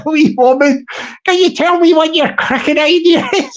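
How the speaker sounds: a hint of a wee woman, on the edge of laughter; wee council woman. Council woman asking about the cracking idea, lightly voiced and giggly.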